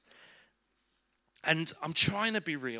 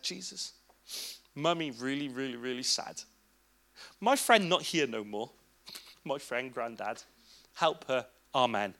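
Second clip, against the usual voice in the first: put-on child's prayer; 4 semitones lower than usual. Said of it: "in her own words".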